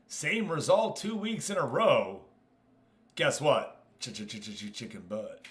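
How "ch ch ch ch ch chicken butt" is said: much softer, lower, slow stuttered joke voice; goofy punchline. Pretend. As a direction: drag out the silly punchline in a low goofy voice. Punchline of guess-what joke.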